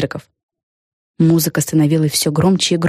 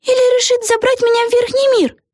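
mild mock whisper. A narrator's reading. Vega worried.

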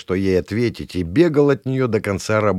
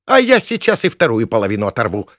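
barking threat; 3 semitones higher, 6 dB louder than usual. Acted. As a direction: bark it at him, furious. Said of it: "рявкнула она". (рявкнув, со злостью)

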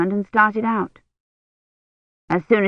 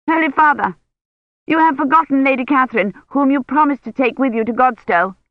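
higher, fast urgent appeal; pleading old lady; 6 semitones higher than usual. A narrator's reading. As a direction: remind the bishop's man insistently. Imeyne's voice in story.

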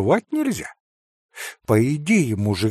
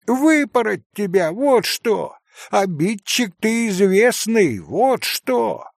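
put-on higher, indignant scolding of the boy; shouting scold; 7 semitones higher, 4 dB louder, slower than usual. A narrator's reading. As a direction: scold the rascal at full voice, higher. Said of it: "раскричалась Марья". (раскричалась, выше и с возмущением)

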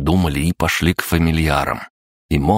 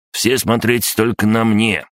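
slow, higher creature voice, self-important; stern; 6 semitones higher than usual. A narrator's reading. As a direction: put the rival firmly in place, slowly. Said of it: "сурово отрезал крабогном". (сурово, медленно)

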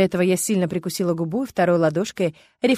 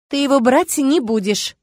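firm, slow, raised voice; 6 semitones higher, 5 dB louder than usual. A narrator's reading. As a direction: lay down the rule. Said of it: "сказала твёрдо".

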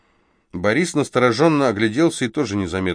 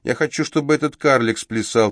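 capricious tone; 5 semitones higher than usual. Acted. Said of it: "проговорила девица капризным тоном".

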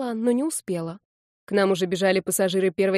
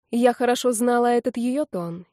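plain reading voice

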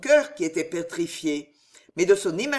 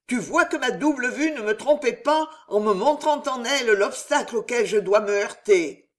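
a hint of hoarse, hissing rage, louder; hoarse hissing fury; 3 semitones higher, 4 dB louder than usual. The queen vowing Jeanne d'Albret's death in hoarse fury. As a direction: swear death on her enemy. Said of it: "rauques et sifflantes".

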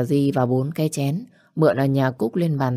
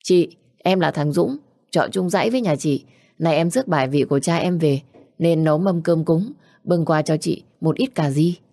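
ringing call. Acted. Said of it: "nghe tiếng của nó vang dội".

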